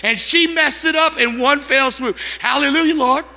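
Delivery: retold furious sarcasm. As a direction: give thanks while fuming, hammed-up. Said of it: "just furious".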